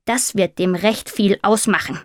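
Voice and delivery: lightly voiced raven, exasperated; a touch of nagging urgency; impatient raven.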